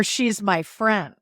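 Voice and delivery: slow, with a shifted stress; slow, the stress moved to another word in "She's my friend"; vary which word in "She's my friend" is stressed. Shown as a demonstration.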